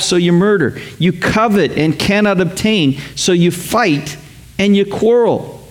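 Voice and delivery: slow, measured scripture reading; preacher reading James chapter four aloud. Acted. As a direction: read the verse slowly and gravely. Reads scripture slowly.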